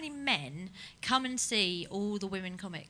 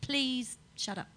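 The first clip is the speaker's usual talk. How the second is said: weary plea; 4 semitones higher, 5 dB quieter, much slower than usual. Retold or imitated. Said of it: "And you're like".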